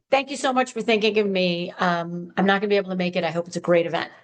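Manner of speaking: gentle, friendly decline; warm and kind. Shown as a demonstration. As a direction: turn the invitation down warmly. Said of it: "Warm and kind".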